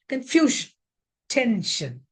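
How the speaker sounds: Confusion, tension, stressed on the syllable just before -sion. Shown as a demonstration. Teacher showing the -sion rule, stress before the ending. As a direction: lean on FU in Confusion, TEN in tension. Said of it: "take stress on the syllable".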